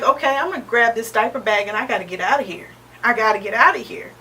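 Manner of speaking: fast, hurried, repeating the escape; frantic inner voice. Retold or imitated. Mother retelling her rush to flee, fast and hurried. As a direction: rush the words, panicked. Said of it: "I'm like".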